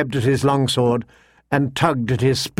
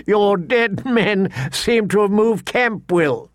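mocking lordling; 7 semitones higher, slower than usual. A narrator's reading.

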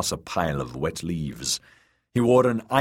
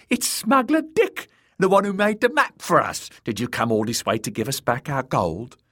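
high, taunting fool voice; high-pitched cruel clown; mocking jester; 7 semitones higher, 3 dB louder than usual. A narrator's reading. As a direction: gloat over the fallen man. Cruel jester taunts fallen smuggler.

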